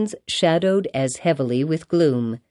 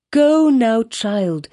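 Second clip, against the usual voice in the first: put-on high, raised command, dropping on "child"; crying out; 5 semitones higher, 3 dB louder, much slower than usual. A narrator's reading. Mother sending her child off, crying out. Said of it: "cried Hester Prynne".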